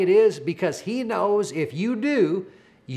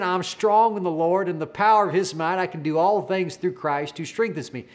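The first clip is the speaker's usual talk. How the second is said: mildly raised, flowing declaration without breaks; retold bold declaration. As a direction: run it through confidently, a touch louder. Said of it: "making that declaration so loud".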